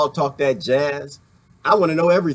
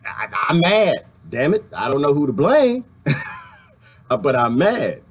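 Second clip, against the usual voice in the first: imitating angry protester. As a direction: lightly play the frustrated guy who's mad at everything. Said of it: "who just wanna say".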